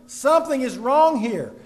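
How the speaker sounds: loud, insistent warning; shouting a warning. Acted. The preacher voicing chaos in churches, a loud insistent warning. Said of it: "It is shouting".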